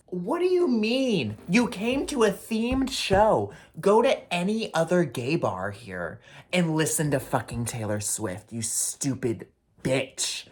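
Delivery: high, loud, slow furious yell; slow furious yelling at the heckler; furious comeback. Acted. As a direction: yell it back at her in outrage. Retorting to the heckler.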